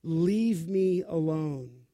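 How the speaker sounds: slow, lightly voiced exhausted mom; a hint of a worn-out mother; understated tired sigh of a mother; mild mock weary mother. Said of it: "for a mother to say".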